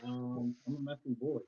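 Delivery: talking with toothbrush in mouth; brushing teeth. Real, not acted. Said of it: "brush your teeth like a four-year-old".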